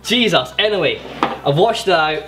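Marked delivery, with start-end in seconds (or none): 0.0-0.5 talking through a burning mouth; laughing through spicy burn; mouth on fire. Real, not acted. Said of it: "My mouth's on fire at the moment".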